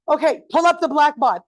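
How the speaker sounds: a parent running out of patience; impatient parent. Retold or imitated. Parent ordering the kid to open Blackboard, impatiently. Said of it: "it's like".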